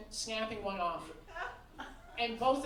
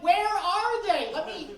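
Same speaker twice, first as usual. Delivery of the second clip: mock searching; 4 semitones higher, 6 dB louder than usual. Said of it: "the thing where you're like".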